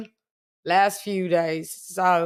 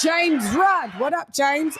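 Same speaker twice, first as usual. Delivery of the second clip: hype shout-out; 5 semitones higher than usual. Real, not acted. Hyped roll call shout.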